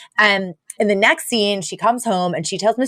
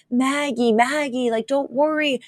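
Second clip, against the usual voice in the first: higher, gently coaxing voice; mild pleading reassurance; 6 semitones higher, 4 dB quieter than usual. Retold or imitated. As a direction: soothe an upset girl, acted out. Soothing upset Maggie, retold.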